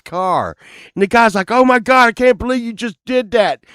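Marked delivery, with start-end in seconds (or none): 1.5-3.6 retold outrage. Rock star reacting to crash.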